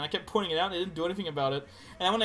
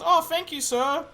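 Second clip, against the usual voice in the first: put-on kid voice; 8 semitones higher, 5 dB louder than usual. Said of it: "And he goes".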